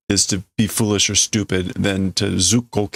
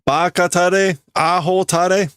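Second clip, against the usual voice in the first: insulting boss; 8 semitones higher than usual. Acted. Insulting the workers.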